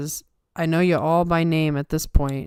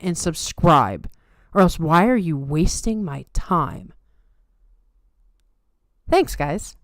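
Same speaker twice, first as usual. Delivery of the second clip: tired plug voice; 3 dB louder than usual. Acted. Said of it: "That's Maria's tired voice".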